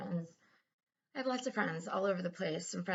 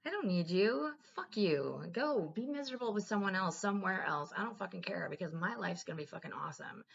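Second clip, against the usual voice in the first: mock defiant rant; 3 semitones higher than usual. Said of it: "I was like".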